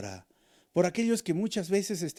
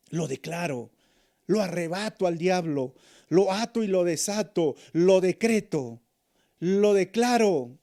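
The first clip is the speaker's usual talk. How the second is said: mock a preacher ordering God about, louder each line; mock bossy prayer; 2 semitones higher, 5 dB louder than usual. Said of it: "no es orar diciendo".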